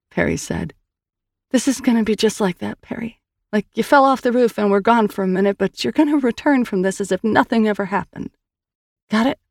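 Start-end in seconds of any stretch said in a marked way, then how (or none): 1.5-9.4 higher, earnest sister voice; Sal's voice. Acted. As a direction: tell it gently, coaxing a memory. Narrator voices Sal.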